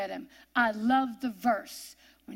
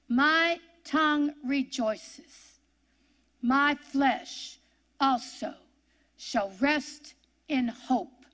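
slow scripture reading; 2 semitones higher, slower than usual. Acted.

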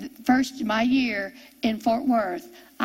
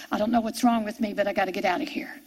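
retold panic; 5 semitones lower, 6 dB quieter, faster than usual. Panicked in the restaurant.

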